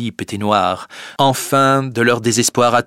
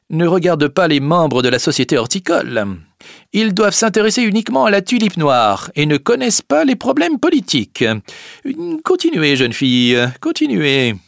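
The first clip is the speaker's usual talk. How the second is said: higher, commanding prince; prince's voice, raised; 8 semitones higher, 4 dB louder than usual. Acted. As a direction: urge her to go on. Prince addresses the girl.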